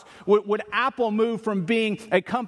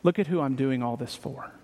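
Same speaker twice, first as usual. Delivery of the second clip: "Look at who I'm doing all this for" said softer and lower, stress on look; quiet sincere boast; 6 semitones lower than usual. Retold or imitated. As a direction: turn the boast toward God, hushed. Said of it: "all of a sudden the boast is".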